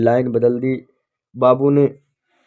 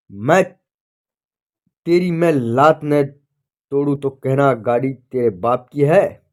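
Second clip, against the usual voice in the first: angry shout. Acted. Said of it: "बाबू चिल्लाया".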